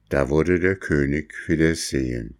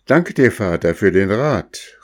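grateful princess, higher and louder; princess calling thanks; 4 semitones higher, 4 dB louder than usual. Acted. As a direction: call out your thanks. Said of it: "rief die Prinzessin". (Prinzessin, dankbar rufend)

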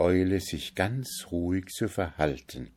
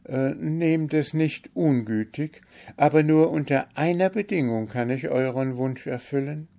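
higher, sorrowful voice of the bewitched owl; lamenting owl princess; 9 semitones higher than usual. A narrator's reading. Owl princess tells the Kalif her sorrow, lamenting, pitched higher. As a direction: mourn your lonely life among ruins.

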